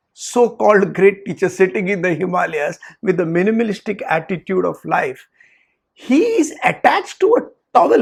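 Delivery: imitating an upset student, mildly heated; student ranting to a friend, mildly angry; mock angry rant. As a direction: complain as if fed up. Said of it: "the student got angry".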